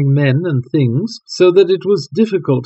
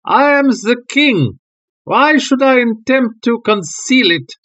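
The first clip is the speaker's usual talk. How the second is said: agitated king; 9 semitones higher than usual. Acted. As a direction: pour out the confession. King's agitated confession.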